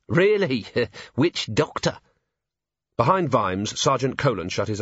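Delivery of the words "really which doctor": high scoffing "really?" then a slow amused sneer; scornful laugh, drawn out; mocking disbelief. Sneering nobleman.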